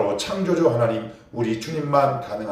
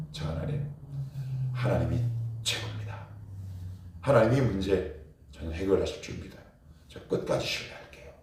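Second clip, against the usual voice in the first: whispered prayer; 3 semitones lower, 7 dB quieter than usual. Shown as a demonstration. Pastor voices an intimate prayer.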